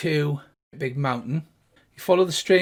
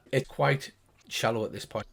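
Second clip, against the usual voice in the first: ordinary delivery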